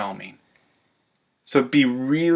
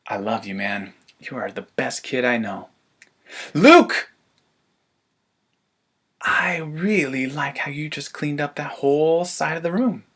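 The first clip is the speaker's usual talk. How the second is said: warm praise. Shown as a demonstration. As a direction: say it gently and lovingly. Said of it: "Catch them off guard".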